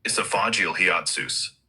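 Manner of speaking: hiatus mangled into "hee-AHT-soos"; butchered hiatus. Real, not acted. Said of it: "butchering the".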